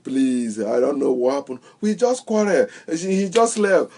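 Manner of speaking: a mild mock plea, not real tears; pleading. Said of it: "the woman will begin to plead".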